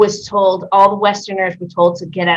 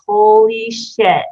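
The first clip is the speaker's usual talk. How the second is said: stunned; 4 dB louder, much slower than usual. Retold or imitated. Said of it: "I was like".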